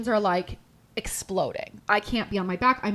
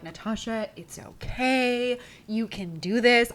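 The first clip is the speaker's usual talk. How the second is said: calm reassurance; slower than usual. Retold or imitated. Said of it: "talking to me all calmly".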